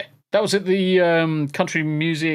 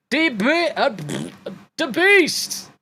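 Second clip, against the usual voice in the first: calling out; 11 semitones higher, slower than usual. Real, not acted. Loud greeting call to friend.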